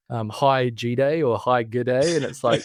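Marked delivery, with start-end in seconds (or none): 0.3-1.2 "G Day" read as letter G plus day; bot's misreading. Retold or imitated. Branding guy quotes a bot's email greeting, misread "G Day". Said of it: "it starts with". 1.4-2.1 "Good Day" said as two full words; bot's misreading. Retold or imitated. Branding guy quotes a bot's email greeting, misread "Good Day". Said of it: "it starts with".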